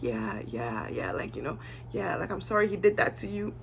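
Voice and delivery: mock Debbie. Imitating Debbie agreeing with Valerie.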